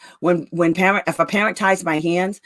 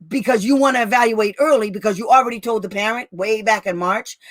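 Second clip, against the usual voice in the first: mild scolding in a higher pitch; retold chewing out; 4 semitones higher than usual. Advocate retells chewing out the hearing officer, mild scolding. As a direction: re-enact a telling-off, higher but not shouted. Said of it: "I chewed out the school while I was chewing out the hearing officer".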